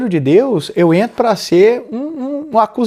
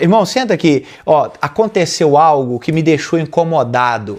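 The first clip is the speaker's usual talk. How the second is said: calm gentle invitation. Shown as a demonstration. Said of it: "tô dando exemplos aqui pra te ajudar a chegar na pessoa".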